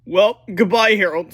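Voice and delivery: put-on high, loud kid voice; George's voice. A narrator's reading. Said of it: "said George".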